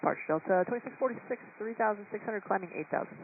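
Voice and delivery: high, thin radio-filtered voice; pilot over the radio. Real, not acted. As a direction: call in from the cockpit over radio.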